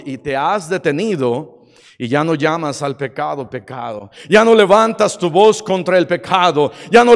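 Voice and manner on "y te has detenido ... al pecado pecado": dropping to a hush. Real, not acted. Preacher drops voice sadly.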